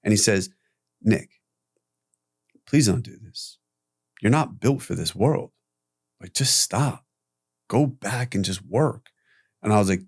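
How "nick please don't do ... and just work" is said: understated retold pleading with long pauses; humble, humane plea. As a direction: gently urge a friend to stop. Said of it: "with all the humility, he looks at me and humanity".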